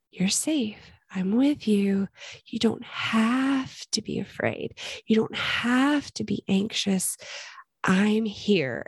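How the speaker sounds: slow, gentle reassurance, lightly voiced; compassionate voice. God comforting an anxious believer, slow and gentle. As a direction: soothe a frightened child, slowly. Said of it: "it's a voice of compassion".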